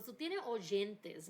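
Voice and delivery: Tú tienes oyentes said slowly in Spanish; slow Spanish quote. Retold or imitated. Retelling the prophet's words to her in Spanish, slow. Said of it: "He goes".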